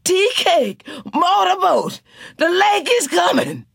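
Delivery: high, loud wake-up alarm; alarmed call. A narrator's reading. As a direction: shout to wake the sleepers. Janey waking, alarm.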